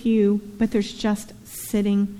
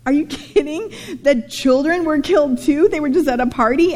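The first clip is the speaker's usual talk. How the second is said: put-on kid's outrage; 4 semitones higher than usual. Child upset at Job story.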